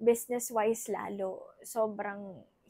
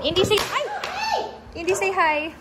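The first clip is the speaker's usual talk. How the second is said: higher, louder sing-song prompt; 8 semitones higher, 8 dB louder than usual. Real, not acted. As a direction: cheerfully coax a hello. Asking child to greet camera.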